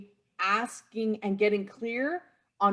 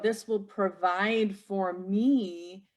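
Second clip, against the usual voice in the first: slow, with provide drawn out and leaned on; stress on provide; much slower than usual. Real, not acted. Coach stressing "provide" to listeners, slow and deliberate. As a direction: land on "provide" slowly so it carries weight. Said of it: "the emphasis on the word provide is".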